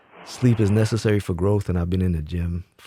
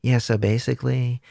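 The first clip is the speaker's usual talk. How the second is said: lightly mocking his own fruity-sounding voice; a hint of put-on fruity talk; fruity self-mimicry; 3 semitones higher than usual. Streamer imitating how he sounded in the background, lightly fruity. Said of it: "I sounded mad, like, fruity".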